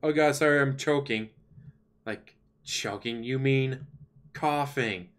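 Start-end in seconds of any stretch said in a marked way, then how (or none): 0.0-1.3 mock streamer apology. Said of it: "when he started coughing".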